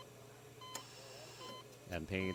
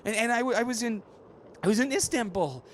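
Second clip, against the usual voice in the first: much higher and louder, stammering; high, louder, stammering protest; high loud put-on voice; 14 semitones higher, 5 dB louder than usual. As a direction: plead it all out in a high strained voice. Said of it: "using different voices".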